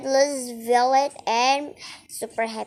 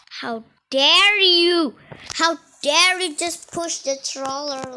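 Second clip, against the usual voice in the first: indignant; 2 semitones higher, 3 dB louder than usual. Real, not acted. Scolding troll.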